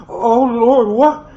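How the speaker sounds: slurred through a mouthful of food; mouth full. A narrator's reading. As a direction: talk round a mouthful, startled. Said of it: "Her speech was slurry, coming through a mouthful of food".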